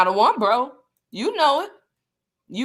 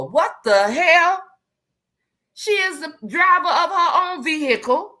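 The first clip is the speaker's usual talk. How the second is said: exasperated laughing outburst; 9 semitones higher, 5 dB louder than usual. Real, not acted. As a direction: laugh it off in disbelief.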